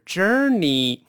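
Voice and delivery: journey开头翘舌破擦，接着勾舌“二”; 示范正确的journey，j翘舌，元音卷舌; 翘舌J. Shown as a demonstration. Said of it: "这翘舌的破擦音J". (journey翘舌起音再勾舌)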